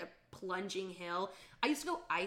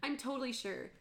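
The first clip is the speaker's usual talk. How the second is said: overeager reassurance; 4 semitones higher, 5 dB louder than usual. Retold or imitated. Unconvincing reassurance, retold.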